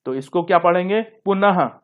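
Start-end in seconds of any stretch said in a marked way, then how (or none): 1.0-1.7 पुनः ending in a clear "ha"; visarga demonstration. Shown as a demonstration. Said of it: "हा की तरह इसका उच्चारण".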